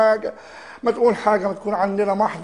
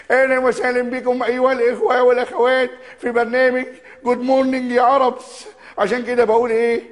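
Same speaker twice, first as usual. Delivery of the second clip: Mohamed Reda impression; 4 semitones higher than usual. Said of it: "يا أستاذ محمد يا رضا".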